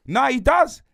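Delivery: high, loud, laughing through the words; cracking up as he insists it's true. Real, not acted. Telling co-host the dad looks young, laughing loudly.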